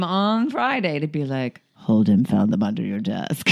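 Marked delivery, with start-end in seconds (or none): 1.8-3.5 put-on low, tattling child quote; mock snitching classmate; tattletale kid voice.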